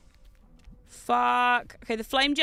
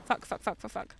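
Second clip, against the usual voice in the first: panicked whisper; 3 semitones lower, 8 dB quieter than usual. Real, not acted. Panicked muttering in game.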